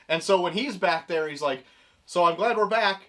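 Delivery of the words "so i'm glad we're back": traumatized, sinking lower as it goes; understated shell-shocked mumble; Booster Gold. Acted. Traumatized hero back from the past, dazed and subdued. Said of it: "Booster Gold was traumatized by that situation".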